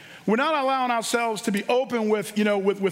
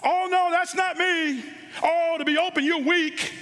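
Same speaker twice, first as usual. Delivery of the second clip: lightly raised, mocking voice of the world; preacher mimicking the world's lies, slightly raised and mocking; 6 semitones higher than usual. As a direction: sneer a little at the world's excuses. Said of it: "all this crazy stuff the world tells us".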